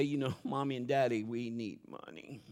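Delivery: put-on hushed, serious talk to the kids; a hint of a solemn parent; mock grave parent talk. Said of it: "I'm not gonna say".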